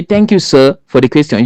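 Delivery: courteous opening, the thank you lifted high; polite thanks. Shown as a demonstration. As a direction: open by politely thanking the jury. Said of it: "As well as you can say".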